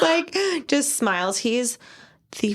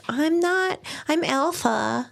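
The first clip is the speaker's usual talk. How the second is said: put-on high, slow lisping little girl; 8 semitones higher, much slower than usual. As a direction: lisp it like a toddler. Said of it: "Here with her little lisp".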